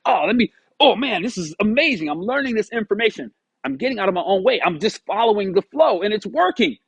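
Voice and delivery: thrilled and a bit breathless in the telling; excited. Retold or imitated. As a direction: replay the rush of things finally working. Excited self-quote about progress.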